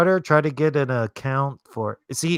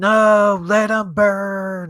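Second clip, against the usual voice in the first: high-pitched yelling. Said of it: "they had him yelling like".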